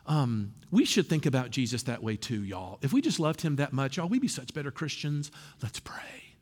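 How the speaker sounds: hushed, mock-sincere sermon voice; mock preachy whisper. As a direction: parody a sappy preacher's closing. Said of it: "you're kinda like".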